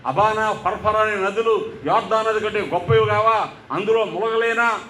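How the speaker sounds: mildly voiced offended commander; a touch of wounded pride, grumbling; indignant rant. Proud commander fuming that the pastor ignored him, mild mock anger. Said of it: "అని కోప్పడిపోతున్నాడు".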